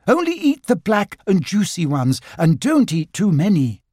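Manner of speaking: high, concerned caution; motherly warning. Acted. Kanga cautioning Tigger about berries, high warning voice. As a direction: warn like a careful mother.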